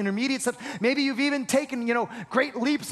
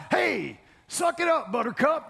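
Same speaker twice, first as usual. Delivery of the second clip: mock tough love; 4 semitones higher than usual. Pastor mocks a harsh rebuke Jesus never gave, mock taunt. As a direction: toss it off like a drill sergeant. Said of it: "This is not".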